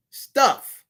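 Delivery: stuff set apart by pauses; emphasis on stuff. Real, not acted. Speaker scolding our chase after frivolous things, stuff emphasized. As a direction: land firmly on the word stuff. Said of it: "emphasis on stuff".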